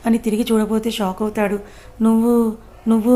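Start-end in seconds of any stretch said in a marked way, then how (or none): 2.0-3.1 stammered, broken-off నువ్వు repeated; stammering. A narrator's reading. Dev, caught by Hema, stammers in shock. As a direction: stumble over నువ్వు in shock. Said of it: "నత్తిగా మాట్లాడుతూ".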